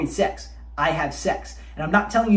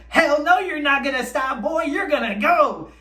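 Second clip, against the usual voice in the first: monkey mind voice; 7 semitones higher than usual. Retold or imitated. The monkey mind taunting the man, high and cocky. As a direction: voice the cocky inner urge egging him on. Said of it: "that little monkey mind of yours is like".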